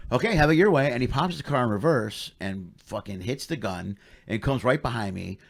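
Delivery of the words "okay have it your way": imitated cop's warning. Imitates cop's threat before confronting him.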